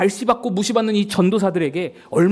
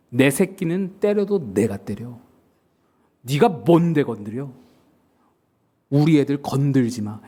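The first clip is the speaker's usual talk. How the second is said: lightly voiced mob boss, lower and measured; gangster-like warning; 5 semitones lower than usual. Department head warns off the pastor who hit his junior, restrained gangster-like menace. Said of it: "무슨 조폭 얘기처럼 돼버렸는데".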